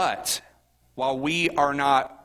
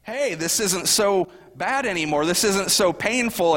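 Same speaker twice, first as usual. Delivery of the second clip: put-on relieved little kid; 5 semitones higher than usual. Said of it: "it's kinda like".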